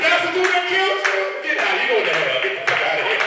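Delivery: high, loud, singsong jeering; mocking onlookers. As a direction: jeer at the killer in the blue pants. People mocking his mugshot.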